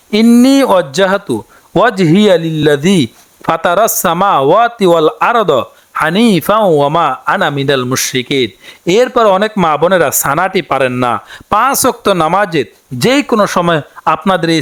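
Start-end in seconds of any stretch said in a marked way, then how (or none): 0.1-8.5 careful recitation. Shown as a demonstration. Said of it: "আমি আবার বলে দিচ্ছি".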